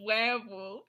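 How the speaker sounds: mock German "werewolf"; playful German-accented imitation. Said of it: "werewolf with a German accent".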